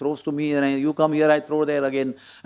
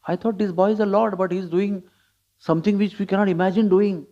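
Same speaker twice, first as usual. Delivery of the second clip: mildly puzzled, slightly raised pitch; bewildered; 4 semitones higher than usual. Retold or imitated. Gandharvas watching the boy Lord, mildly bewildered. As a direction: imitate baffled onlookers questioning what they see. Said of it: "But they were bewildered".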